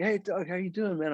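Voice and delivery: high, easygoing hello; retold friendly greeting. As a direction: imitate a friendly musician saying hi.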